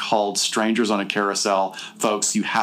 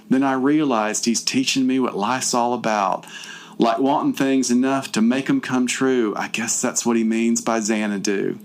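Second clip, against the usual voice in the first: lightly theatrical recital of a silly poem; dramatic reading; 3 semitones higher than usual. Shown as a demonstration. Host reading the heroine's poem aloud, with mild mock drama. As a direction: read it like a mock-earnest school recital. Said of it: "I'm gonna do my dramatic reading".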